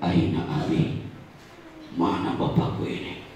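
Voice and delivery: mild retold sob under the breath; crying to himself. Boy left alone backstage, searching for his father, quietly tearful. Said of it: "semakin nangis".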